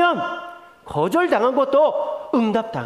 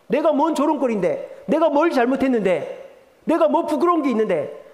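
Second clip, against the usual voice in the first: mock indignant, higher-pitched protest; higher, affronted comeback; indignant retort; 4 semitones higher than usual. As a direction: push back as the offended party. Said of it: "비방당하는 사람은 그렇게 얘기합니다".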